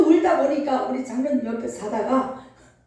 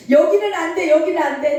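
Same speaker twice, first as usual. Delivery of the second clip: firm refusal, retold; 3 semitones higher, 4 dB louder than usual. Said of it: "했는데".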